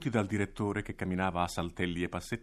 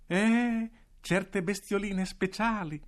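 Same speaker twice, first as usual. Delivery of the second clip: acuto, strascicato e lento, pieno di sottintesi; direttore allusivo; 13 semitones higher, 4 dB louder, much slower than usual. Acted. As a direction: nasconde un piano malvagio. Risposta ambigua del direttore. (il direttore risponde a Claudia, lento e allusivo)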